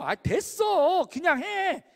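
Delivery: slow, high, impatient wave-off; dismissive brush-off. Retold or imitated. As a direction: brush them off, dragging it out. Blunt dismissal of the questioner. (느리고 높게 귀찮다는 듯 무시하며)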